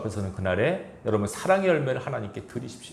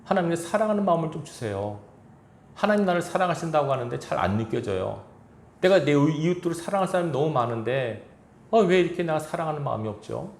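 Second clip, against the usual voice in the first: higher, earnest plea to God; raised pleading prayer voice; 5 semitones higher than usual. Shown as a demonstration. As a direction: plead like a struggling believer. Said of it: "이거 놓고 고민하셔야 돼요".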